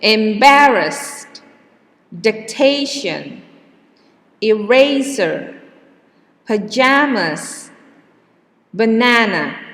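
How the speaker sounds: each word read loud, second syllable stressed; stress dictation. Shown as a demonstration. Teacher dictating words to class for stress practice. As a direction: read Embarrassed, dictation, eraser with clear stress. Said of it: "take note where the stress is".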